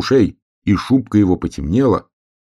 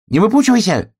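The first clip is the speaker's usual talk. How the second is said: much higher, louder teasing cry; hedgehog shouting; 4 dB louder, faster than usual. A narrator's reading. Hedgehog shouts at the goggling bear cub, high teasing. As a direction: tease him with a shout. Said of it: "крикнул ёжик".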